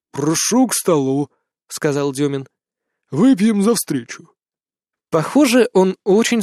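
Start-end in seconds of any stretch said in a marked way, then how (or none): 0.1-1.3 put-on drunk host. A narrator's reading. Drunk Dyomin voiced. 3.1-4.3 put-on drunk toast. A narrator's reading. Drunk Dyomin voiced.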